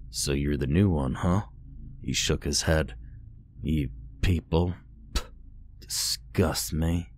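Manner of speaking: a stranger full of disgust; disgusted sneer. A narrator's reading. Stranger contemptuous of captive.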